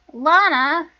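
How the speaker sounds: loud, reproachful name; exasperated exclamation. Acted. Sister cutting off Lana's excuse, exasperated shout. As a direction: burst out with the name.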